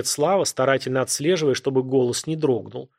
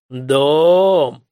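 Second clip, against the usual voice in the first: surprised; 9 dB louder than usual. A narrator's reading. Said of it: "удивлённо переспросил воин".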